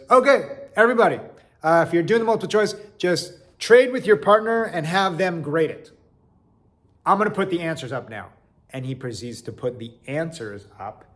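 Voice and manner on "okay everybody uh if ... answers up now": professor addressing class. Retold or imitated. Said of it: "He says".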